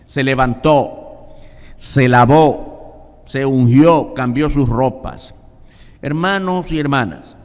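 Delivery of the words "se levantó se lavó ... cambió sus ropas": loud, slow and deliberate; emphatic preaching. Acted. Preacher retelling David's acts, loud and slow. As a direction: lean on each act.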